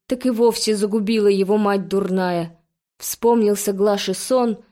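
usual speaking voice

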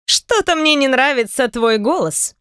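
медленно, растягивая слова; протяни подозрительно; протяжно. Acted. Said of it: "протянула Наталья". (Наталья протягивает с подозрением)

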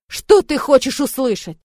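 loud, slow angry question; angry demand. Acted. Brother confronting his sister in the car, loud angry demand. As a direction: press her hard with anger.

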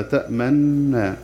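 تأمنا with a doubled nun and the lips rounded on it, very slow; ishmam. Shown as a demonstration. Teacher demonstrates ishmam, slowly, for students. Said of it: "وبالإشمام وضم الشفتين".

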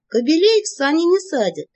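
high, loud teasing shout. A narrator's reading. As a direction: yell it back over the shoulder. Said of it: "прокричала я, оборачиваясь".

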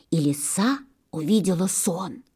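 ordinary delivery

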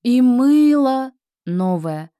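high, loud, slow reveal; loud after pause. Shown as a demonstration. Teacher shows the climax after a pause. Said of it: "пауза".

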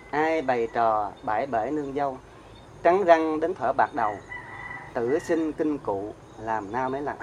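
slow, measured recital of the verse; poem recitation. Acted. Monk reciting a poem on birth's tears to the audience, slow and measured. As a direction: let the lines of the poem unfold slowly.

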